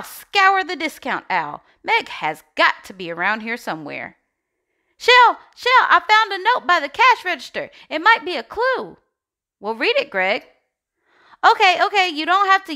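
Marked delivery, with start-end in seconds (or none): 5.0-7.7 calling out loud and high; excited call. Acted. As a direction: shout the name to get attention. Greg calls out excitedly.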